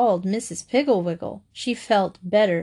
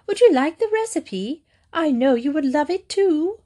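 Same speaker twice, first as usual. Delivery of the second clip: Mary Joe voice; 7 semitones higher than usual. Acted.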